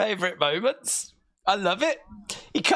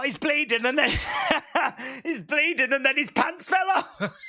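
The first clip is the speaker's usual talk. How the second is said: laughing; 3 semitones higher than usual. Real, not acted. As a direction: talk through laughter. Laughing while recounting.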